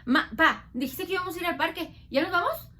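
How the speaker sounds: put-on loud nagging kid pleading; child whining to leave for the park; whiny impatient child. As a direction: pester the parents like a restless kid. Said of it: "¿cómo empieza el niño?".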